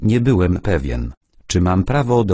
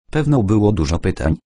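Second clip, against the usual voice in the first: quick, knowing irony; fast ironic remark, lightly voiced; 2 semitones higher, faster than usual. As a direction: toss it off with mock innocence. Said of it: "nie kryjąc ironii".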